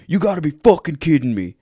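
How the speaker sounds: retold exasperated disappointment; disappointed cop. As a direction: imitate a cop in total disbelief. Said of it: "that amount of disappointment".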